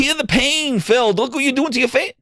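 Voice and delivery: high, pleading and hammed-up; mock crying plea. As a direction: sob it out as a fake-tearful fan.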